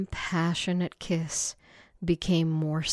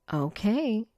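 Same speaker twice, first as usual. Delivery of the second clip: shy; 4 semitones higher than usual. Acted. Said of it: "Betty said quickly with a shy smile".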